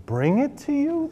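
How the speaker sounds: surprised question. A narrator's reading. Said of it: "the boy asked".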